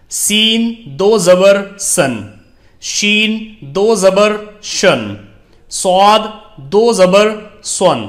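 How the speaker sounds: each letter spelled out slowly, with a pause after every sound; slow recitation drill. Shown as a demonstration. Teacher reciting the alphabet to pupils, slow, measured drill voice.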